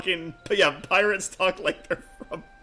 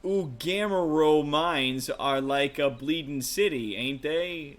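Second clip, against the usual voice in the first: put-on lightly done rough-edged sailor type, Brooklyn-ish accent; rough adventurer NPC; 4 dB quieter than usual. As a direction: read it as a cocky old rogue telling a tale. Rough NPC tells the heist.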